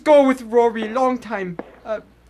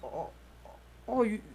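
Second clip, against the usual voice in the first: put-on weak old immigrant; 2 semitones higher than usual. Old immigrant in hospital bed.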